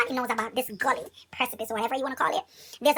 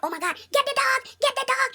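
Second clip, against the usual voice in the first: high, loud frightened cry; panicked plea; 13 semitones higher, 3 dB louder than usual. Retold or imitated. Girl chased by dog begging the owner, panicked and loud. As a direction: beg for help while fleeing. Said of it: "And I'm like".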